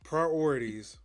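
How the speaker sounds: whispered Priorities. Real, not acted. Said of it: "whispered echo".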